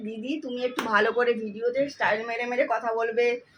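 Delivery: ordinary talk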